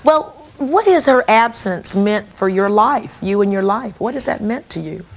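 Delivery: usual speaking voice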